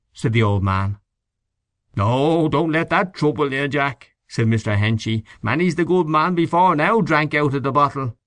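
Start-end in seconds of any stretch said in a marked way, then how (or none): 2.0-8.2 lightly raised, easygoing; Henchy reassures the old man Jack; voiced Mr Henchy. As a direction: wave the worry away. Henchy brushes off tumblers.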